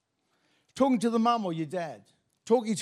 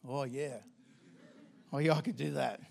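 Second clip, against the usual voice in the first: lower, softer tongue-in-cheek eagerness; mock eager; 4 semitones lower, 8 dB quieter than usual. Preacher joking about a calling to the Maldives, mock eager. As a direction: savour the holiday idea jokingly.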